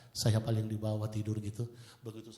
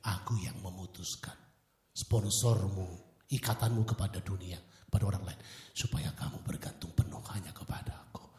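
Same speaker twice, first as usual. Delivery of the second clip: voice of God; 5 semitones lower than usual. Retold or imitated. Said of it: "saya dengar Holy Spirit begini".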